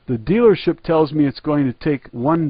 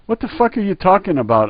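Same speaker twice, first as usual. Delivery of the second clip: sharp, raised disbelief; stunned retort; 7 semitones higher than usual. Retold or imitated. Customer snapping back at the clerk, raised disbelief. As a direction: fire it back at him, baffled. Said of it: "I answered".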